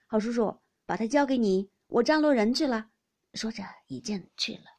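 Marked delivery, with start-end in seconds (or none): 0.1-2.9 loud, jovial hand-over; cheerful address. A narrator's reading. Host handing his guest over to Baoyu, loud and cheerful. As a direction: call it out heartily, as a busy host. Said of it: "赖尚荣向宝玉笑道".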